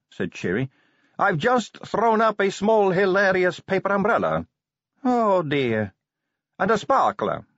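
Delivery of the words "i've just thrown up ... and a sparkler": high, slow queasy voice; queasy Sally. A narrator's reading. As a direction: sound like you just threw up.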